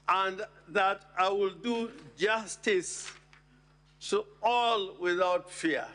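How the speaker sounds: slow, deliberate stress on do justice; emphatic. Shown as a demonstration. Senator pressing the Senate on doing justice to all, slow and deliberate. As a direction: spell out do justice to all, word by word. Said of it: "I emphasize the word".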